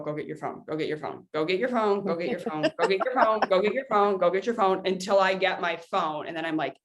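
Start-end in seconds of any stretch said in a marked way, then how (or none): 0.0-4.9 chanting one phrase over and over; repeating same phrase flatly. Shown as a demonstration. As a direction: drone the reminder on repeat like a mantra. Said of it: "I will literally just walk and go".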